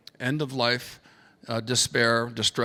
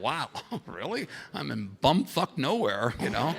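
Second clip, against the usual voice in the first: amused disbelief; 3 semitones higher than usual. Real, not acted. Amused disbelief at being recognized.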